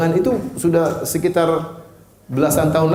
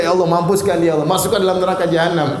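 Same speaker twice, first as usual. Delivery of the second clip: laughing mock curse; 3 semitones higher than usual.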